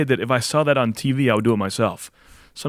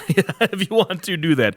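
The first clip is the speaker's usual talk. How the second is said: Big Deb voice; 4 semitones higher than usual. Acted. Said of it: "let me get Big Deb back".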